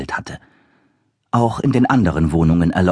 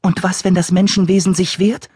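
high creature voice; 10 semitones higher than usual. Acted. First creature voice asks.

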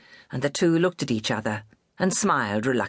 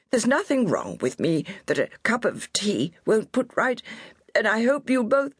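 lightly voiced stubborn old woman, higher; proud old lady; 10 semitones higher than usual. A narrator's reading. Injured old lady brushing off help, lightly voiced stubborn. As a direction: insist you're fine while hurt. Miss Bellamy protests from ground.

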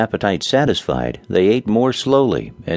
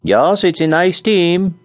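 put-on slow Scandinavian-accented agreement, higher; 10 semitones higher, 4 dB louder, slower than usual. A narrator's reading. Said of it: "agreed Nels".

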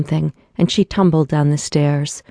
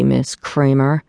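slow, grave, slightly lower, rising at the end; a boss's mildly somber reminder; deep, somber voice; 2 semitones lower, slower than usual. Acted. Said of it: "said a deep, somber voice".

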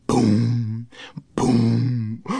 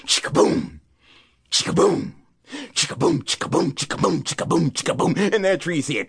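plain reading voice

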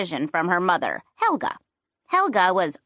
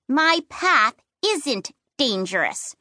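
indignant; 2 semitones higher, slower than usual. Acted. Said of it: "I said with indignation".

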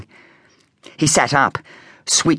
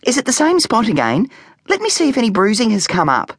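ordering mum; 11 semitones higher, faster than usual. A narrator's reading. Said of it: "ordered Specky's mum".

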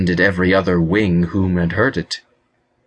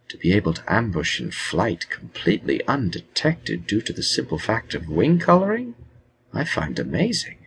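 soft admiring; 3 semitones higher, 5 dB quieter than usual. Acted. Wizard admires softly.

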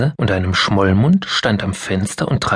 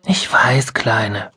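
soothing mother; slower than usual. Acted. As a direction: comfort the crying girl. Mother soothes crying child.

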